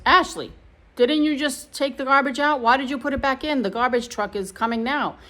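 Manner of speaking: mock a partner scolding someone in the car; imitated scolding. Acting out husband's scolding in car.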